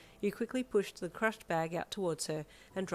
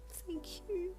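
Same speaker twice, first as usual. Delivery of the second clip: whispered; 13 semitones higher, 6 dB quieter than usual. Acted. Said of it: "you whispered".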